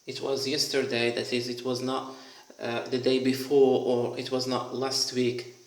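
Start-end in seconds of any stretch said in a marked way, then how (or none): 0.1-1.1 single out "yesterday" with stress. Shown as a demonstration. Teacher ruling out other days, stress on "yesterday". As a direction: lean on "yesterday" as the key word. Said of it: "The emphasis in yesterday".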